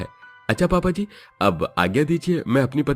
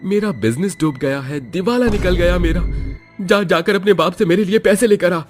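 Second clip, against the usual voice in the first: put-on drunken demand; 8 semitones higher than usual. Drunk husband demanding money.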